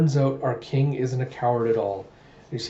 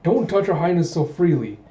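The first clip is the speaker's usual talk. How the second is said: lightly voiced affronted lord, higher; indignant nobleman; 4 semitones higher than usual. Lord rebuking a guard for touching the princess, indignant. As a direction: scold in a mildly haughty, raised voice. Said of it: "Kang Taejun's going".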